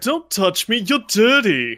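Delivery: put-on very loud, snooty, nasal mid-Atlantic accent. Playing a snobby character, snobby nasal mid-Atlantic accent. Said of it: "It's that snobby, nasally".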